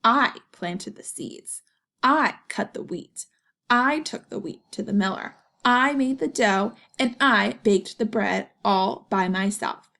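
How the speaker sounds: a touch of a firm hen; proud hen. Acted. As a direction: count her work off proudly. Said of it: "clucked the little red hen".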